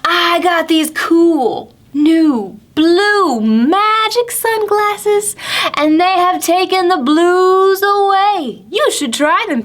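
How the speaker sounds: high, slow, cheery toad voice; lightly voiced toad showing off cool shades; Grumpy Toad voice. Toad boasting to Pete about his sunglasses, high and cheery. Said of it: "And Grumpy Toad said".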